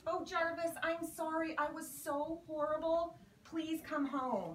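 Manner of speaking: pleading call. Retold or imitated. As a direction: beg him to come home. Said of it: "nowhere to be found".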